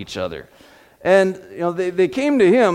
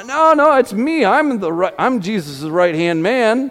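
eager boasting; 5 semitones higher, 4 dB louder than usual. Retold or imitated. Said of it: "Peter said".

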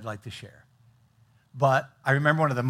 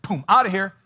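mock panicked exclamation; 6 semitones higher, 8 dB louder than usual. Preacher voicing Elijah fleeing Jezebel, louder and higher. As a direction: burst out louder and higher, bolting away.

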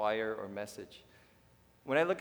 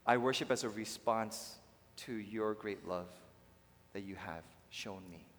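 humble prayer; 3 semitones lower than usual. Shown as a demonstration. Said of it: "you come in and say".

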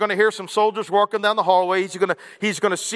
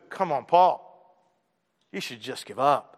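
taunting; 6 semitones lower than usual. Pretend. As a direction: goad him to quit. Mock tempter taunting Paul.

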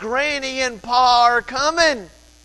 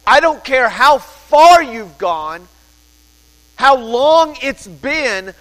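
louder, urgent pulpit plea; fervent preaching; 3 semitones higher, 5 dB louder than usual. Acted. Pastor urging the congregation to repent, loud and fervent. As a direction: call the congregation to turn around. Pastor pleading at full volume.

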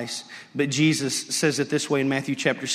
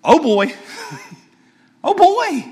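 put-on much higher, laughing oh boy; knowing demon; 13 semitones higher, 8 dB louder than usual. Preacher playing the demon seeing Jesus, high laughing dread. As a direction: chuckle it like a demon who knows the game is up. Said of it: "And this demon looks and goes".

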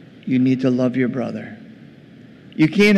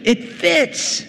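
very high, exclaimed verdict; acted father's high-pitched protest; emphatic insistence; 12 semitones higher than usual. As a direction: shoot the pitch right up to clinch the argument. Father insists the feast fits.

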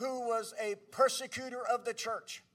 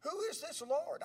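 musing question, higher on the repeat; wondering; 3 semitones higher than usual. Retold or imitated. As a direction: ponder it, puzzled, as if to oneself. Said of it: "He must have wondered".

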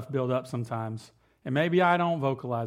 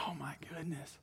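stunned whispered gasp of dismay; hushed exasperated whisper; 17 dB quieter than usual. Retold or imitated. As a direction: breathe it out in disbelief. Dismayed at toys across yard.

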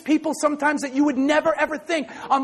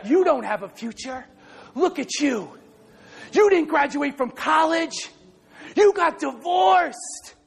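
taunting, rising higher and slower; enemy taunting; 3 semitones higher, slower than usual. Retold or imitated. The enemy taunting a listener, rising and slow. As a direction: sneer it, climbing up. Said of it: "the enemy has been whispering".

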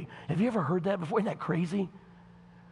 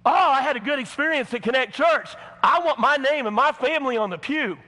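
higher, louder smug voice; mock churchgoer; 8 semitones higher, 7 dB louder than usual. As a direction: play the self-important member. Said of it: "You see".

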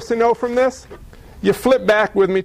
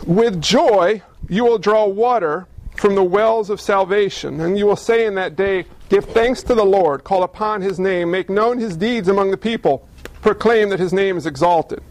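scripture reading. Acted. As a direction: read the verse with weight. Reads scripture aloud.

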